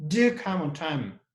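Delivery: firm emphasis on DO; stress on DO. Shown as a demonstration. Teacher giving an order with no other option, stress on DO. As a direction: make Do the strongest word. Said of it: "show the emphasis on one specific word".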